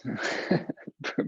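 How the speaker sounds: short breathy chuckle; small laugh to yourself mid-instruction; brief, light laugh between cues. Real, not acted. Laughs after giving instruction.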